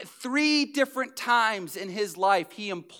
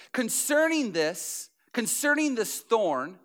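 slow solemn reading; 2 semitones higher, slower than usual. Acted. Reading Paul slowly.

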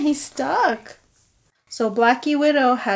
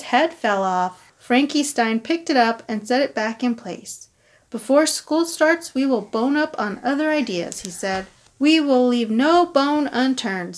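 put-on reading to children. A narrator's reading. Reading picture book aloud.

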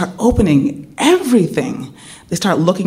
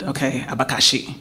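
quiet repeat; 6 semitones lower, 8 dB quieter than usual. Retold or imitated. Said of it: "And I repeat".

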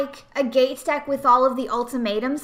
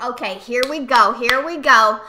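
hopeful, louder and eager; excited; 5 dB louder than usual. Retold or imitated. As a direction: hype yourself up for the big play. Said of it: "I was like".

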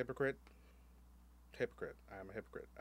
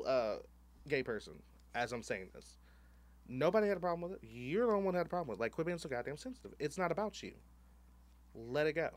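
louder, quick sassy rant; 4 semitones higher, 5 dB louder than usual. Retold or imitated. Ranting at the man who stopped at his table, louder and fast. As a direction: rattle off the reasons, exasperated.

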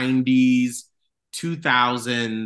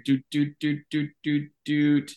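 thinking hum; 3 semitones higher than usual. Pretend. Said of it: "let me go back in my memory".

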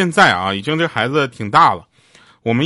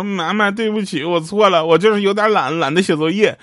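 tearful; 7 semitones higher than usual. Retold or imitated. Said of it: "他女儿就泪眼巴叉的说".

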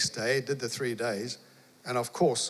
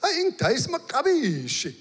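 cheery Zulu call; 14 semitones higher, 4 dB louder than usual. Retold or imitated. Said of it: "And I said".

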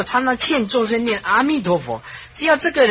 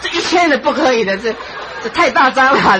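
laughing refusal; 4 semitones higher than usual. Retold or imitated. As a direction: wave him off while laughing. Laughing refusal of more money. (笑着拒绝再给钱)

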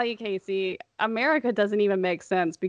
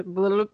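imitated babble noise. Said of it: "That's a technical term".

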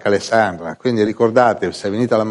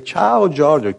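TV hello; 6 semitones higher, much slower than usual. Retold or imitated. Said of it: "ma il loro modo".

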